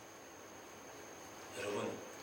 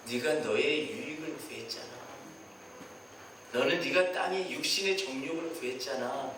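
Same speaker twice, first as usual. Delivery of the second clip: God's rebuke; 6 semitones lower than usual. Acted. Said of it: "이분이 뭐라고 말씀하시냐면".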